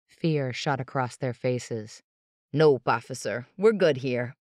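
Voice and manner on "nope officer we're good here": louder, brisk and smooth; quick denial. Acted. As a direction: brush it off fast. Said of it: "Avery said".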